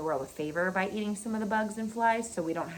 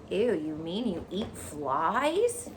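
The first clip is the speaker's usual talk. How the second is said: slow, disgusted "Ew" rising at the end; a shocked little pig recoiling; gasping pig; much slower than usual. Acted. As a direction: pig disgusted at the spider's diet. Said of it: "gasped Wilbur".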